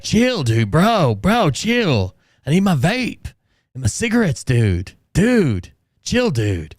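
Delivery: a hint of a pleading frat bro. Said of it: "He's like".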